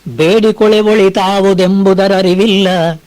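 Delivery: slow, measured verse chanting; poem recitation. Acted. Preacher reciting Mankutimmana Kagga to listeners, slow recitation. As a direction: lay out each line of the verse slowly.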